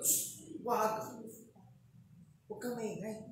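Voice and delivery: the crowd scolding a beggar; hushing scold. Retold or imitated. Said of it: "Parang sinisigaw".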